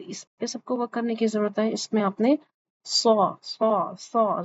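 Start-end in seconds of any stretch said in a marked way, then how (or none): 2.8-4.4 سو with the tongue pulled up to the palate; emphatic saad. Shown as a demonstration. Teacher demos the saad sound to students. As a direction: say سو heavy and hissing, the tongue raised. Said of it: "زبان کو اوپر".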